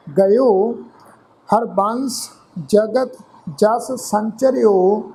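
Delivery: measured, drawn-out reading of Gurbani verse; slow scripture recitation. Shown as a demonstration. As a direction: recite each phrase slowly with pauses.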